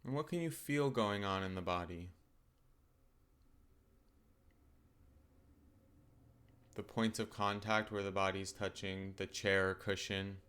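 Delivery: calm, unhurried meditation guidance with long pauses; guided meditation. Acted. Teacher settling listeners into open awareness of the body, calm guided meditation.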